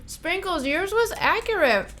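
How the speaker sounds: talking with mouth full. Real, not acted. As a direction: speak through a mouthful. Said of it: "I'm talking with my mouth full".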